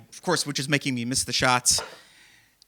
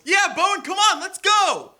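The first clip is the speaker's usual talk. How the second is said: mock teen shout; 5 dB louder than usual. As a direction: egg him on from the bleachers, half annoyed. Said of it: "I hear another voice".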